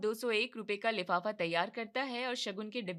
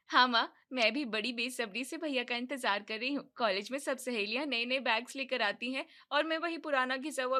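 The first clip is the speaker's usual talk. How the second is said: put-on young daughter. Daughter telling mother what she wants, eager young voice.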